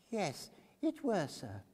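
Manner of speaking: eager humble witness voice; high fussy old woman witness. A narrator's reading. Mrs Cluppins answers.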